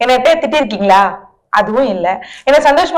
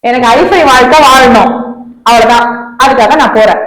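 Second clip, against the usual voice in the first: defiant; 3 semitones lower than usual. Acted. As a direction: lay down the law, no discussion. Girlfriend announces she leaves.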